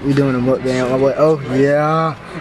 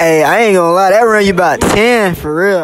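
loud, laughing reply; 5 semitones higher, 6 dB louder than usual. Real, not acted. Host laughs at answer.

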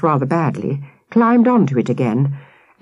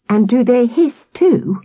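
put-on higher and slow, a boy's fascinated question; wide-eyed; 9 semitones higher, 3 dB louder than usual. Nathan asking the policeman, wide-eyed and slow. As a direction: let the wonder slow you down. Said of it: "wide-eyed".

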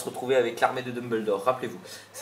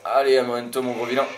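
louder, higher playful taunt at the villain; taunting the boss; 4 semitones higher, 10 dB louder than usual. Real, not acted. Player taunts the game boss on screen, loud and gleeful. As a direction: egg the big baddie on, gleeful.

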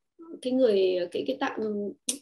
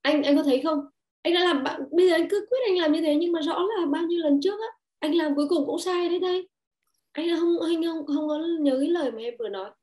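reproachful wife; 5 semitones higher than usual. Retold or imitated. Wife blaming her husband, raised reproachful voice. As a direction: pile on the blame, voice raised. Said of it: "ta nói với chồng là".

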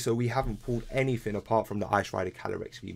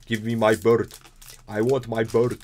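whiny demand; 7 dB louder than usual. Real, not acted. Whining for the bird card.

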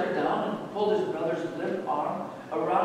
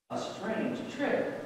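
softer, slow private musing; talking to himself; 3 semitones higher, 6 dB quieter, slower than usual. A narrator's reading. Jacob alone after the beggar's trick, talking to himself. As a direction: mull it over under your breath, slowly. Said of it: "he said to himself".

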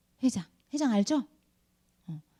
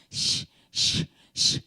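hissy mock sobs, no voice; imitated crying; much slower than usual. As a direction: imitate a child's sobbing in short breathy bursts. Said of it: "하면서 막 울더라고요". (흑흑 우는 아이 흉내)

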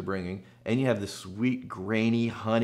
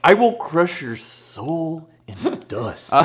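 loud, slow, higher barbarian boast; 7 semitones higher, 9 dB louder, slower than usual. Pretend. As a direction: bellow like a cartoon warlord. Mock titan threats continue.

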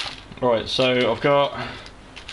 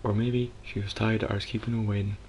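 mock American accent; 6 dB quieter than usual. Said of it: "My American accent isn't really up to scratch".

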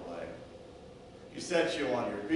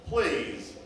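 pleading for help; slower than usual. Acted. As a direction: let the cry for help sink into a plea. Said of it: "your plea and your cry for help".

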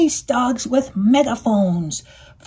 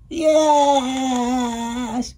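bawled; 3 semitones higher than usual. A narrator's reading. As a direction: bawl it like a tearful duck. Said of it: "bawled the duck".

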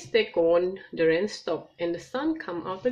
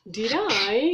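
mildly confused; 4 semitones higher, 3 dB louder than usual. Acted. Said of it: "a bit confused".

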